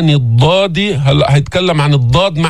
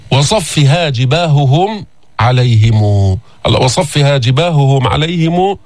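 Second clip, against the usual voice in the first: slow chant with the ه clear; tajweed chant; Quran recitation; slower than usual. Shown as a demonstration. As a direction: recite slowly.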